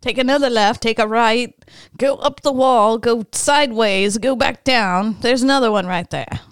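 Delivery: lightly voiced raccoon giving directions; a hint of a folksy raccoon, helpful; helpful raccoon character. Raccoon directs cats to another dumpster, lightly put-on helpful voice.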